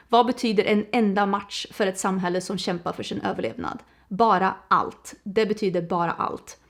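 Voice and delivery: quick, even reading of a blurb; reading aloud in Swedish. Real, not acted. Reading the book's back to viewers, brisk read. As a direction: read the Swedish back cover through at pace. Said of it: "Let me actually read it in Swedish".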